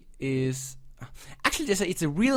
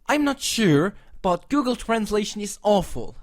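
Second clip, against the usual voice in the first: louder and higher, fed up; exasperated outburst; 5 semitones higher, 6 dB louder than usual. Real, not acted. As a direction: blurt it out in frustration. Ranting about Google Translation.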